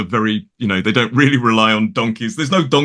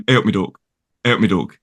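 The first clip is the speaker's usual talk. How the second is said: broad Derbyshire regional greeting; Ilkeston dialect; 2 semitones lower than usual. Retold or imitated. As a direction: say it like an Ilkeston local. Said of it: "They'll say things like".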